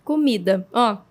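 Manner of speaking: talking with mouth full; words around a bite of cheese. Real, not acted. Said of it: "eu vou falar com a boca cheia". (de boca cheia)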